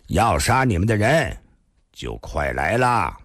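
cold. Acted. Thin man warning the killers are coming, coldly. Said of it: "冷冷地说道".

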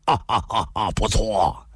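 short staged chuckle, then approval; acted hearty laugh. A narrator's reading. Tie Chuanjia agrees with Ah Fei, laughing with relief. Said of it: "展颜地笑道".

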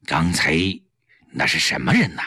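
husband questioning his wife about the visitor, low and wary. A narrator's reading. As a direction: probe her with low distrust. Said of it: "警惕地问".

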